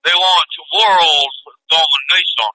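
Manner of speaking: put-on very slow, drawn-out snooty elite accent; Hollywood elite accent. Telling how the cabal talks, slow hoity-toity accent. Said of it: "They talk like that?".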